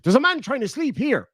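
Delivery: grumpy Buzz. Retold or imitated. Buzz complaining from the coffin, mock grumpy. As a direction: sound hard done by.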